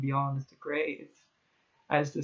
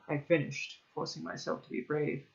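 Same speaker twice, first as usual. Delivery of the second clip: ordinary delivery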